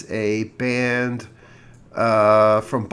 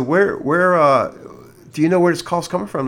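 higher, fast and pressing; urgent demand; 5 semitones higher than usual. Retold or imitated. Husband pressing the clerk about the caller, urgent. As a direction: hurry the question out, demanding answers.

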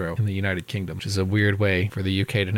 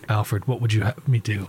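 gravel Batman voice; 3 semitones lower than usual. Retold or imitated. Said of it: "I cracked my voice there".

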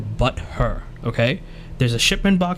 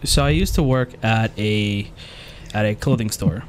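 low-key storytelling voice; slower than usual. Shown as a demonstration. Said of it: "the low-key storytelling voice".

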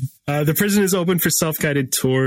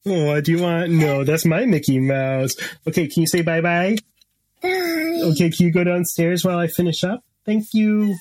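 gentle, higher parent voice; 5 semitones higher than usual. Real, not acted. Mother talking to her child.

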